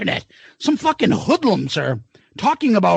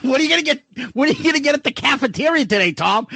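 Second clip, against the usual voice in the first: imitating a slurring professor, mocking; mocking accent and slurring; 3 semitones higher, much faster than usual. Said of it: "we were mocking his, like, accent".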